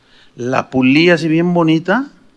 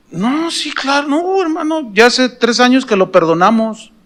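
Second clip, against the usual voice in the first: perdón tranquilizador; 6 semitones higher than usual. Retold or imitated. Tranquiliza al pastor que pide perdón.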